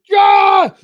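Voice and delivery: high, loud mock-cheerful yeah; exaggerated bitter yeah; sarcastic yeah. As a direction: drip sarcasm on it. Sarcastic about dealership pickup.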